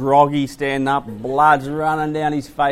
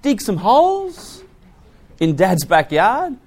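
put-on kids' voice; 9 semitones higher than usual. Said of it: "We said".

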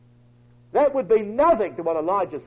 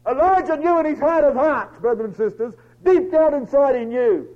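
loud, raised, emphatic sermon voice; full-force preaching; 5 semitones higher, 6 dB louder than usual. Acted. Preacher telling brethren what Elijah knew inside, full-force preaching. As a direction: drive the conviction home to the congregation.

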